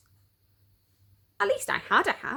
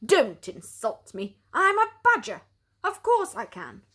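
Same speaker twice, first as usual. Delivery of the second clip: offended badger; 2 semitones higher, 4 dB louder than usual. Jeff offended by the question.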